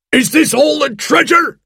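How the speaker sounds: high-pitched, outraged pirate yell; angry shout. A narrator's reading. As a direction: demand it in disbelief. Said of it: "he shouted".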